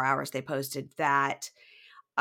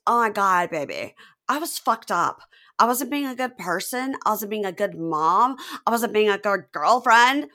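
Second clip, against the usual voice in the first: higher, louder, whiny confession; imitating Lacey; 5 semitones higher, 7 dB louder than usual. Lacey apologizing to John for her past, mock whine. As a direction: overplay her tearful apology.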